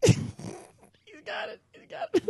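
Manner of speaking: very high, squeaky laughing voice. Real, not acted. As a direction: gasp the words through laughter. Laughing while reporting the chase.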